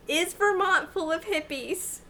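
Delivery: clear, careful question to a phone; repeating to voice assistant. Real, not acted. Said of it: "Thank you".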